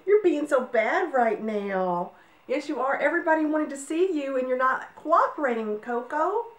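playful high scolding of a puppy; puppy talk. Real, not acted. Owner talking to her naughty puppy, playful baby talk. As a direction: tease the puppy sweetly.

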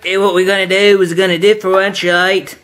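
a light, put-on Australian accent with "mate"; lightly voiced Australian accent; poor Australian accent. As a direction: lay on a thin Australian accent, like a bloke down under. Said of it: "attempt at an Australian accent there".

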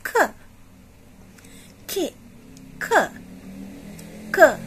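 the "K." sound said short and crisp; teacher models the c sound. Shown as a demonstration. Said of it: "What is the sound of K?".

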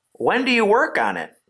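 high-pitched pleading question; eager, high plea; begging. A narrator's reading. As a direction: beg to know, voice pitched high. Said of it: "begged Wilbur".

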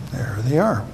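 breathy whisper of a secret. Real, not acted. Pastor whispering to the kids about the picture.

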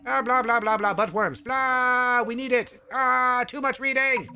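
loud, high blah-blah outburst; hammed-up fed-up wail; mock exasperated shouting. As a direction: give up reading and yell over it. Fed up with reading, abandons dialogue.

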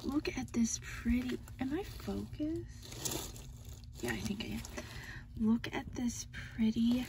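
hushed, breathy admiration; soft whispered delight over a gift. Real, not acted. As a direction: whisper it like a secret treasure. Whispering while admiring a planner.

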